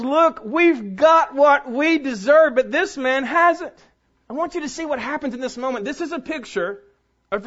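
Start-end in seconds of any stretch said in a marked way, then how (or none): 0.0-3.7 slow, louder voice of the dying thief; repentant thief. Acted. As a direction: plead it slowly and firmly, a man with nothing left. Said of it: "tells the other thief and says".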